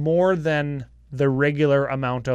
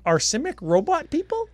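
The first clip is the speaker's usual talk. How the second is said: robot voice; 12 semitones higher than usual. Pretend. Asks in a put-on robot voice.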